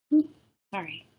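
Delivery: hiccuping mid-sentence; hiccups. Real, not acted. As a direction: talk through a hiccup. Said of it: "I just had the hiccups".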